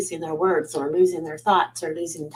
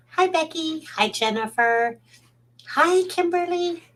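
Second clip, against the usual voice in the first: greetings pitched way up high; 10 semitones higher, slower than usual. Real, not acted. Host welcomes viewers in a high greeting voice. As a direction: lift the hellos high into the head. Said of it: "Again, my voice gets high".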